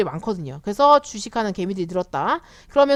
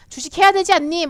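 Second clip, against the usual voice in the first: mock pushy nudge; 6 semitones higher, 4 dB louder than usual. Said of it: "막".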